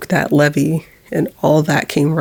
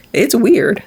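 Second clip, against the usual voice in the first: laughing; 4 semitones higher than usual. Real, not acted. Laughing at talking to camera.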